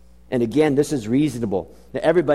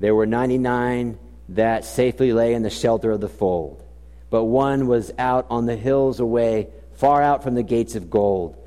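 hymn recital; 4 semitones lower than usual. Shown as a demonstration. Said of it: "And it says this".

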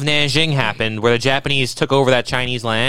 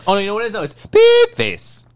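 high squeaky voice; 7 semitones higher than usual. Pretend. Joking about bleeped slurs.

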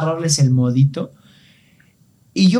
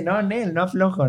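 higher, laughing refusal of the haggling seller; amused stubborn seller; 5 semitones higher than usual. Retold or imitated. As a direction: play the seller turning him down with a chuckle. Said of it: "El güey se reía y dice".

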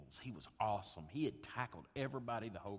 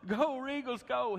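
high, loud cheering yell; retold coach cheering the wrong-way run; rival coach yelling; 9 dB louder, slower than usual. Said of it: "was yelling".

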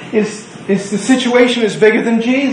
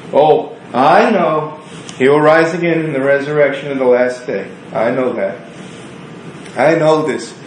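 dismissive; 4 semitones lower than usual. Acted. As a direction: wave it away, already knowing. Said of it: "being very dismissive".

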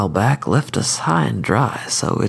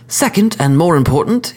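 higher, refined courteous assassin; cordial sophisticated killer; 6 semitones higher than usual. Acted. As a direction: lecture the court, smooth and polite. Skidmire continues.

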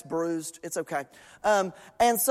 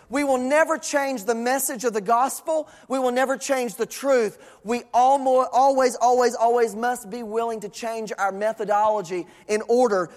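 earnest preaching; 3 semitones higher than usual. Acted. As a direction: preach it in rolling, insistent phrases. Preaches with emphasis.

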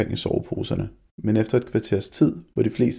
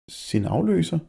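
higher, a touch of nervous shake; slightly shaky; 9 semitones higher, slower than usual. A narrator's reading. Nervous boy asking the bully, slightly shaky. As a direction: ask it with a faint tremble of fear. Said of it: "med let rystende stemme".

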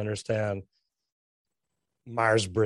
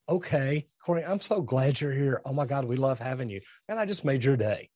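gushing praise; 2 semitones higher than usual. Shown as a demonstration. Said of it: "I'm like".

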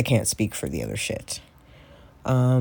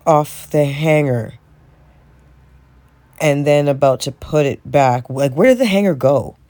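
exasperated rant; 2 semitones higher, 4 dB louder than usual. Real, not acted. Ranting about missing hangers.

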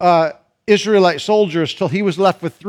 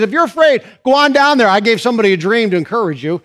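voice of God; 2 semitones higher, faster than usual. Acted. Voicing God again.

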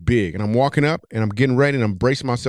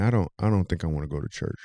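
politely; 6 semitones lower, 5 dB quieter, faster than usual. Retold or imitated. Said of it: "So then I just politely said to him".

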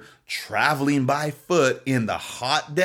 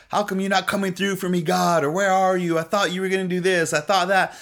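a touch of a whiny, hurt plea, pitched higher; mock complaining to God; 5 semitones higher than usual. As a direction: grumble at God like a let-down child.

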